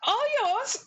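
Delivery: bullywug guard. Acted. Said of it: "they just leave".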